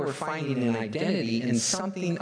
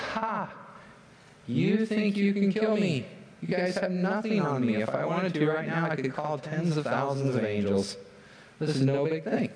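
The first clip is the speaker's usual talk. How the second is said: higher, scoffing, unafraid challenge; defiant taunt; 3 semitones higher than usual. Acted. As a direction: laugh off their threat. Jesus defies the Roman rulers.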